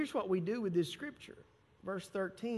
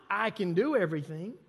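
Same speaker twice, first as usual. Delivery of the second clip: "I" pushed forward, louder than usual; stress on I; 4 dB louder than usual. Shown as a demonstration. Preacher mimicking a self-centred reading, stress on "I". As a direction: put the weight on "I". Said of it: "we stop there".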